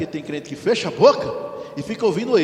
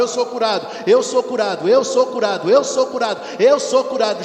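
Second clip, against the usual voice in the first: loud declaration; 2 semitones higher, 6 dB louder than usual. Pretend. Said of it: "Chorando, mas fala a palavra".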